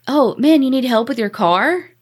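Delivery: high, overly friendly offer; fake friendly. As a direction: play it innocent and helpful. Retold fake-friendly offer of help.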